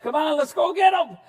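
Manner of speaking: high, loud eager shout; excited kid shouting. Retold or imitated. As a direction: yell it like a thrilled kid joining the hunt. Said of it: "I'd be like".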